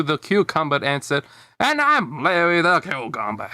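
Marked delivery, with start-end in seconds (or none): 1.6-3.5 put-on young Larry. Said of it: "that's how they sound when they were younger".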